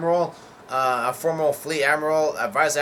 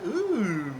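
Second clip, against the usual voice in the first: mock ooh; 7 semitones higher than usual. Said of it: "somebody yells out".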